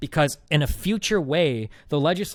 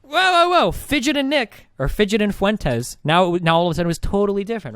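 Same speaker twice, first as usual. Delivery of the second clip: very high, loud hammed-up whoa whoa whoa; shrieking mock panic, caricaturing a flustered rival; caricaturing the rival's panicked backpedal, high and loud; mocking opponent; 9 semitones higher, 5 dB louder than usual. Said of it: "And he's like".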